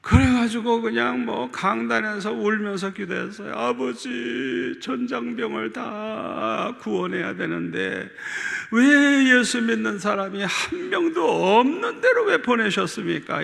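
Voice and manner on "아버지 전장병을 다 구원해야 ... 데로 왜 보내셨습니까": slow, pleading prayer with a catch of tears; retold crying prayer. Pastor retelling his prayer from the pulpit, tearful pleading. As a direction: plead with God, half in tears. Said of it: "이러면서 이제 막 울면서 기도했어요".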